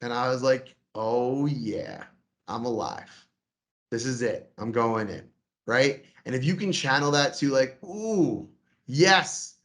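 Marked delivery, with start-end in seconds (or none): 1.0-5.3 low, savoring self-talk with pauses; relishing self-talk. Retold or imitated. Coach retelling pre-stage pep talk, relishing. 7.8-9.5 higher, drawn-in ooh into emphatic yes; eager thrill. Acted. Coach modeling nerves turned to eagerness, thrilled.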